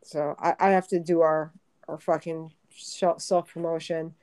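out of breath after laughing; breathless, catching her breath; after laughing hard. Real, not acted. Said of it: "I need to catch my breath".

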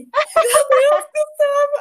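high, very slow gasp of disbelief; stunned disbelief. Retold or imitated. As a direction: stretch it out, overwhelmed. Hearing she passed the exam.

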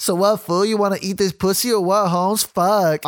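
hammed-up Mexican gangster; thick Mexican gangster accent. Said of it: "speak in a thick Mexican gangster accent".

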